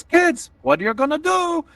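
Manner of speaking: put-on high, loose Italian-Russian accent of a mother; old Italian-Russian woman. Mom shrugs off her child's footwear, muddled Italian-Russian accent. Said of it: "apparently from this accent".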